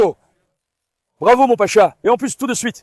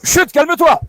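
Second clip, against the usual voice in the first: louder, higher shushing; loud hush; 7 semitones higher, 5 dB louder than usual. Real, not acted. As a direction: hush the dog firmly. Hushing excited dog. (chut lancé fort au chien)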